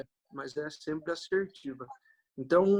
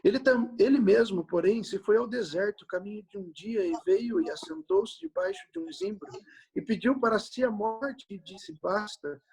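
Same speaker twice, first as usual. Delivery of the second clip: raised, solemn Bible reading voice; scripture reading; 4 semitones higher than usual. Acted. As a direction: read the passage aloud to the congregation. Reads Bible passage aloud.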